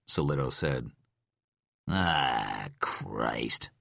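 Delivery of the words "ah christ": groaning. A narrator's reading. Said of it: "Rhyme groaned".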